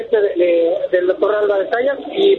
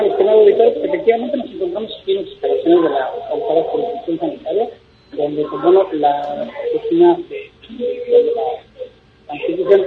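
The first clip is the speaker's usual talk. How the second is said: echoey room sound; hollow echo. Real, not acted. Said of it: "se oye como eco".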